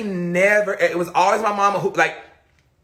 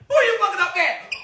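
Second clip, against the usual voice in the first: higher challenging father voice; a hint of the dad demanding; mock stern father; 10 semitones higher than usual. Father confronting, repeated.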